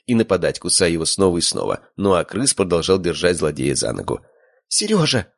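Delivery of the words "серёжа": high alarmed cry of a name; frightened girl's cry. A narrator's reading. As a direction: shriek his name in fright. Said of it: "вскрикнула Света".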